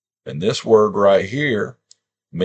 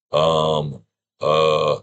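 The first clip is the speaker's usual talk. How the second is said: 1 halting sounding-out; 4 semitones lower, slower than usual. Shown as a demonstration. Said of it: "you literally make that sound".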